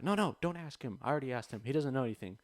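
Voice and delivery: loud, high, snippy dismissal; mock outraged customer. Customer telling Tony not to ask him, loud and high. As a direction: wave him off shrilly and loud.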